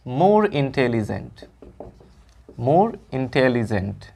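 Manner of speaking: very slow, each word spelled out for notes; slow dictation. Shown as a demonstration. Teacher dictating the answer slowly to the class. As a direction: dictate it slowly so students can write. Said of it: "तो यहाँ पे हम intelligent का comparative लिखेंगे".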